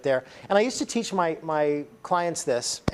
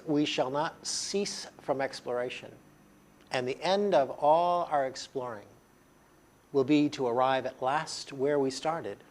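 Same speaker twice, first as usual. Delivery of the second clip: poem reading; 3 dB quieter than usual. Acted. Recites T S Eliot quotation.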